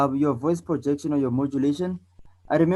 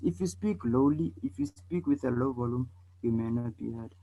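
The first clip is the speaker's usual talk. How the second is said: soft, under-projected voice fading away; low volume; 7 dB quieter than usual. Shown as a demonstration. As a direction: speak too quietly to be heard. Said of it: "So can you tell the difference?".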